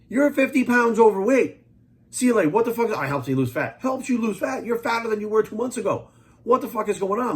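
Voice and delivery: incredulous rant. Real, not acted. Ranting at CLA users.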